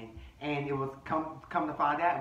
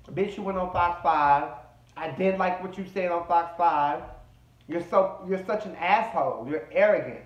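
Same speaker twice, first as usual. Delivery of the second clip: louder, retold telling-off; imitated confrontation; 5 dB louder than usual. Ladies getting him together over Fox five, retold as a loud scolding. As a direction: call him out as the ladies did.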